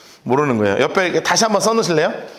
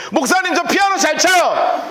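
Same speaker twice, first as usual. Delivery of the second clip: put-on higher, excited little boy calling out; a proud first-grader shouting his hand up; eager child shout; 8 semitones higher than usual. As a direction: kid bragging to the pastor. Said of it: "손을 딱 들더니".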